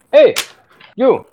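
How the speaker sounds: high, sharp call to get attention; acted shout. Alex shouts at the guy, calling out high. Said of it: "Alex will shout at the guy".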